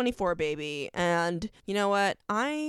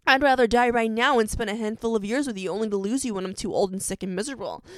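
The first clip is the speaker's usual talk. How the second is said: quick, emphatic recited love speech; lightly acted impassioned confession; Damon; faster than usual. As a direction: race through a TV hero's monologue from memory. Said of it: "he ends it off like".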